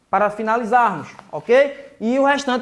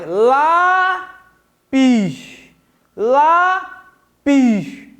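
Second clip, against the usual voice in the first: "Lápis" with a long, open "Lá", then a separate "pis"; "Lápis" drawn out, first syllable strongest; stress on first syllable; 3 dB louder, much slower than usual. Shown as a demonstration. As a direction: stretch the "Lá" of "Lápis" wide open. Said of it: "olha a boca do tio abrindo mais".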